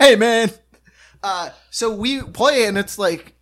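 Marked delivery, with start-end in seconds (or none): 0.0-0.5 Tom Hardy impression. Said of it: "He's like Tom Hardy".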